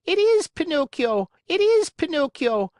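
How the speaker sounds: high, loud joyful chorus yell. A narrator's reading. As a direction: shout it like a crowd. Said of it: "yelled all the marionettes".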